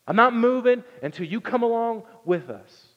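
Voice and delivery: high, loud defiant refusal; mock sit-in protest; stubborn Moses. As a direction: Moses digging in his heels.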